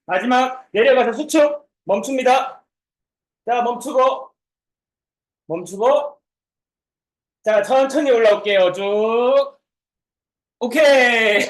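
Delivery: loud, high final push cues; barking gym coach. Real, not acted. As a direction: drive the class through the last rep. Coach cueing final hold.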